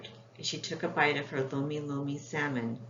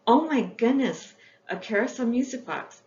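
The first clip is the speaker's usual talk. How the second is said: delighted surprise; 7 semitones higher, 3 dB louder than usual. Acted. Opens gift, eyes grow wide.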